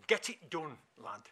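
lightly voiced Yorkshire accent. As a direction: put on a touch of Yorkshire. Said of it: "in the Yorkshire accent".

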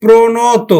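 প্রণত slowly, syllables held, final o; visarga as o. Shown as a demonstration. Teacher asks students to watch, slow প্রণত ending in o. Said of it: "আবার উচ্চারণ করি, দেখো".

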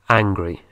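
angry said low and clear, falling; model pronunciation. Shown as a demonstration. Teacher repeats angry for students to copy, clearly. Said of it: "Y enfadado es angry".

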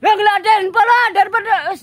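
loud offended refusal to the officer; indignant protest. Acted. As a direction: push back hard, offended. Refusing to burn his face.

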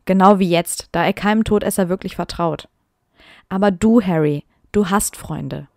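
reading her old story with mock drama; dramatic reading aloud. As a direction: perform the text a little theatrically. Reads fanfic aloud.

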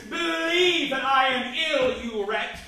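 sharp, loud outrage at the servant; indignant retort. Acted. Invalid scolding the servant who doubts he is ill, indignant. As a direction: spit out the disbelief, offended.

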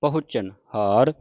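ਪਹੁੰਚਣ with a sounded h, "pa-hu-chan"; careful "pahuchan haar" for ਪਹੁੰਚਣ ਹਾਰ; audible h. Shown as a demonstration. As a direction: let the h be heard inside ਪਹੁੰਚਣ. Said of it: "ਹਾਹੇ ਦੀ ਆਵਾਜ਼ ਵੀ ਨਿਕਲੇ".

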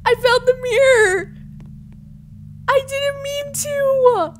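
high, drawn-out whiny cry; mock wail. Mock-distressed over finding the mirror.

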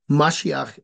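"Mashiach" said as MA-shiach, the opening syllable strongest; stress on first syllable. Shown as a demonstration. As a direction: lean on the MA of "Mashiach". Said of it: "is on the first".

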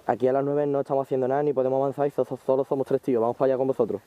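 calling loudly across the field; loud callout. Real, not acted. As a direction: shout the report to the squad. (gritando a los compañeros)

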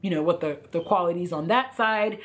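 hoarse, croaky throat. Real, not acted. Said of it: "a frog just jumped into my throat".

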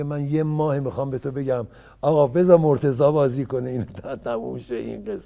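director's voice. Retold or imitated. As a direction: play the director pressing his point. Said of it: "رضا میگه".

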